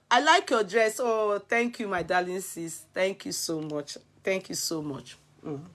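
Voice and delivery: a coy, hushed thank-you to a darling sis; mock sweet thanks. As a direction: play the demure, well-mannered girl. Acts out a polite compliment exchange.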